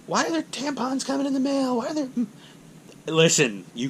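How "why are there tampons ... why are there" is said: high-pitched mock wife voice; imitated puzzled wife. Wife questioning supplies arriving by mail, high mock complaint. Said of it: "She's like".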